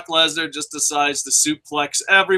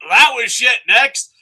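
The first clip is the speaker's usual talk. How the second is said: higher, louder rapid-fire verdicts; gleeful rapid dismissal; quick dismissive review; 8 semitones higher, 5 dB louder than usual. Real, not acted. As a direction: toss each match aside fast. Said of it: "we fucking review 'em, like, quick".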